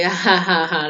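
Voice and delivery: dry, spoken fake laughter; sarcastic mock laugh. Imitating daughter mocking her mother's joke, sarcastic. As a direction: say each ha as a sarcastic jab. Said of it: "laughing, being sarcastic".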